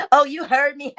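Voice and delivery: high mock of her line; high mocking imitation. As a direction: mimic her with scorn. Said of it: "this shit is so cute".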